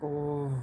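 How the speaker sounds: soft, drawn-out "oh"; dismayed groan. Retold or imitated. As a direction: imitate a listener wincing at it. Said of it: "you would be like".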